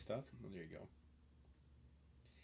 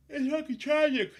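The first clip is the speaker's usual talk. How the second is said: much higher, loud despairing cry; shouted exasperation, far higher; outraged shout; 12 dB louder than usual. Real, not acted. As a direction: blow up in disbelief. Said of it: "repeated escalation".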